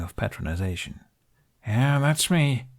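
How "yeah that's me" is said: snorting. A narrator's reading. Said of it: "Hiccup snorted".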